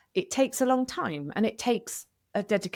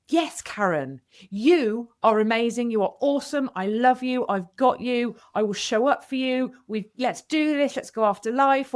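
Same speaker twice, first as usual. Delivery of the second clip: brighter, louder self-cheering; upbeat pep talk to herself; 2 semitones higher, 4 dB louder than usual. Retold or imitated. Karen cheering on her own reflection, upbeat and louder. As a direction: pump yourself up in the mirror. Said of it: "I will say".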